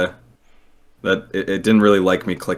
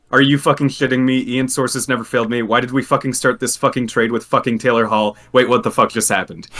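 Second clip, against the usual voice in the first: reading all-caps chat; 3 semitones higher than usual. Retold or imitated. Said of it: "Xavier's in all caps saying".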